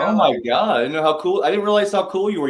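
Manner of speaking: high, fast and delighted; genuinely thrilled surprise; excited. Real, not acted. Surprised by guest's art background.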